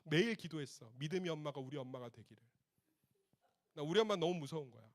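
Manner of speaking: usual speaking voice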